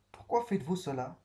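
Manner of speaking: rising question, Pourquoi stressed; a real, searching question; questioning tune. Shown as a demonstration. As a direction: ask it with a clear rise at the end. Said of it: "Je cherche une réponse".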